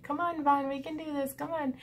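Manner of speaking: high coaxing call; encouraging Randy. Retold or imitated. Boyfriend coaxing her out of the pit, high and coaxing. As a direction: coax her up like calling a pet. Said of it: "Randy ... shaking a bag of treats at the edge of the pit, being like".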